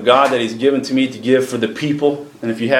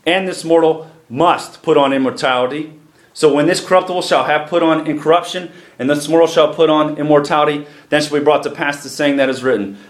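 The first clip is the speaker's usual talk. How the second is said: scripture reading; 2 semitones higher than usual. Acted. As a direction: proclaim the verses to the congregation.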